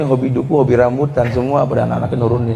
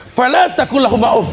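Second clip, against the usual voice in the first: preacher's raised proclamation; proclaimed verse; 9 semitones higher than usual. Acted. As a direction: ring out "Fala taqul lahuma uff" like a climax. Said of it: "repeated verse as climax".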